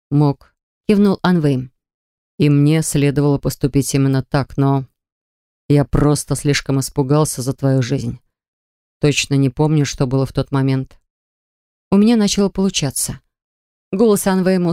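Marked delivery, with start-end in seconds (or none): 0.1-11.0 lightly lowered male voice; steady, measured man; calm man's voice. Acted. Anvejm speaks.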